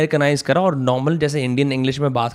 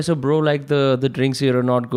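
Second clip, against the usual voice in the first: posh English crowd; 3 semitones lower, much slower than usual. Retold or imitated. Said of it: "बोल रहे".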